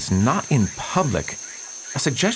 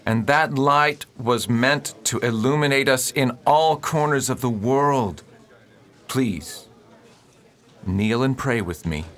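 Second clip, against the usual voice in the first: sermon. Acted. Preacher leading his congregation in solemn prayer. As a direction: preach it to the kneeling flock.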